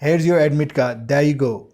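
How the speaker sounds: slow, warm giving tone, card held out; friendly hand-over. Shown as a demonstration. Teacher handing a student the admit card, friendly. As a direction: hand it over kindly, a touch brighter. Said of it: "लेकिन देखिए".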